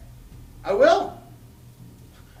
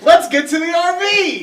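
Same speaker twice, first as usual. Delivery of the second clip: urgent shout; 10 semitones higher, 9 dB louder than usual. Acted. Fleeing killer, rallying the group.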